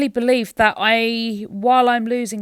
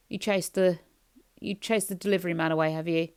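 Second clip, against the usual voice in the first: soft pet talk; 3 semitones lower, 6 dB quieter than usual. Real, not acted. Talking softly to dog.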